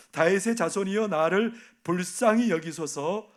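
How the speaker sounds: slow pleading cry, 불쌍히 stretched. Retold or imitated. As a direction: call it out slowly, begging. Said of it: "더욱 크게 소리질러 이르되". (느리게 간청하는 외침)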